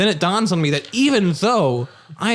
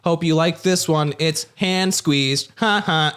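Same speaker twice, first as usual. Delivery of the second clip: sassy robot voice; much slower than usual. Acted. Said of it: "that sounds like a sassy little robot".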